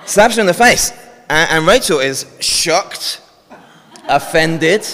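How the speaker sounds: can't hold back a laugh while narrating. Real, not acted. Volunteers ham up the slap.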